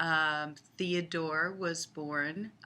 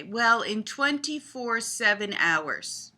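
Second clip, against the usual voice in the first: imitating child; 6 semitones higher, 7 dB louder, slower than usual. Voicing granddaughter's answer.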